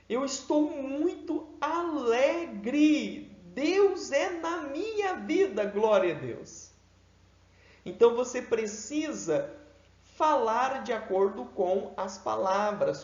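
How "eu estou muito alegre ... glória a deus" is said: much higher, slow and exultant; joyful voice. Shown as a demonstration. Teacher showing a joyful voice for happy words. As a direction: lift it up in praise. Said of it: "A voz precisa condizer com as palavras".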